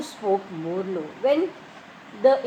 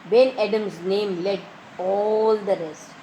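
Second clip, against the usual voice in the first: slow poem reading; 3 semitones lower, slower than usual. Shown as a demonstration. Teacher reads poem line slowly.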